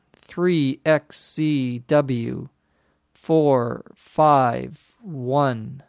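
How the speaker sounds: very slow, halting plate number, gasping between parts; running out of breath. Acted. Injured Anne giving the doctor the plate number, out of breath. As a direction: force out each character with fading breath. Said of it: "running out of breath".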